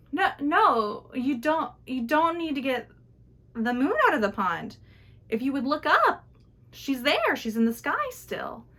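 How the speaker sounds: insisting the moon is in the sky; insistent gentleman. Acted.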